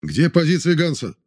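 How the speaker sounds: high sharp demanding growl. Acted. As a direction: growl the question. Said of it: "прорычал Рёбке".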